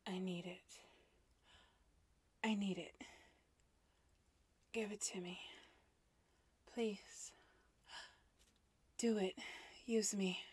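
high, loud, breathless begging; desperate stammering plea. Acted. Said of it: "I stammered".

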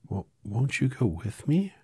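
put-on high, whispered child's plea; pleading girl. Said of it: "pleaded the girl".

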